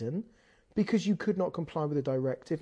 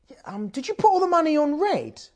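whisper; 10 semitones higher, 5 dB louder than usual. Retold or imitated. Whispered question to Kevin.

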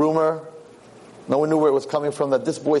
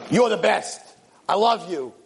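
higher, adoring morning cheer; enthusiastic greeting; 3 semitones higher, slower than usual. Acted. Boy greeting the king as usual, enthusiastic. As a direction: gush praise at the king. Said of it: "give the king the old good morning".

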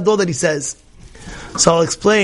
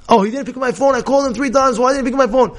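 higher-pitched mock agitation; worked up; 6 semitones higher, faster than usual. Imagined friend complaining about an unanswered phone call, mock worked up. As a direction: imitate someone fretting over an unanswered call. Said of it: "So you go crazy".

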